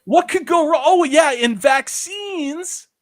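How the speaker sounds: high, loud mock disbelief; sarcastic outrage. Real, not acted. Ranting to chat about meddling, loud and sarcastic. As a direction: throw the line up in sarcastic alarm.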